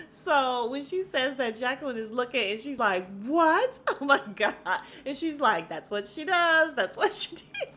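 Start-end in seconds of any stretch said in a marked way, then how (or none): 3.2-4.5 high, loud, laughing disbelief; gasp-worthy gossip reaction; mock shock. Jacqueline reacting to the accusation, shocked. 5.7-7.7 mock accusing. Acting out accusing quarrel, laughing.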